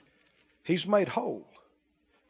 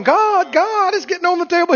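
high, quick anxious plea; worried call to God; 11 semitones higher, 8 dB louder than usual. Retold or imitated. Believer alarmed, calling to God about the spill. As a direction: sound alarmed as the cup overflows. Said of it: "And you're going".

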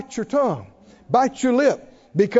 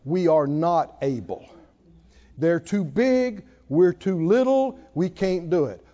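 whining spies; 5 semitones lower than usual. Retold or imitated. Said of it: "what did they say".

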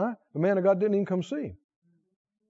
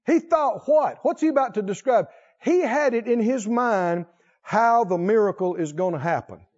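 normal talking voice

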